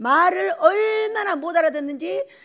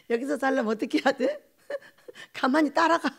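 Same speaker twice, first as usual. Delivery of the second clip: laughing while quoting. Retold or imitated. Retelling the deacon's line laughing.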